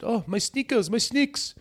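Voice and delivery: very high mock-whiny lament; retold wail. Teammate retelling his friend's dismay over ruined sneakers, high mock wail. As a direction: squeal it as a hammed-up dismayed victim.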